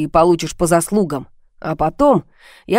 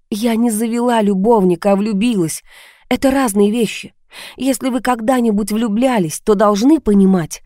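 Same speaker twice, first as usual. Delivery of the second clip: higher voice, mildly indignant; defensive heroine; 4 semitones higher than usual. Acted. Heroine telling the caller she fell in love, earnestly defensive. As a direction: stand your ground with lightly raised pitch.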